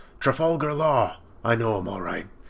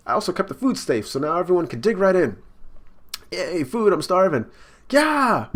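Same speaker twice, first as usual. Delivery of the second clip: higher, louder cartoon crew voices; voicing the Straw Hats; 7 semitones higher, 5 dB louder than usual. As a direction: play the rowdy crew, bright and bickering. Reads Straw Hat crew lines.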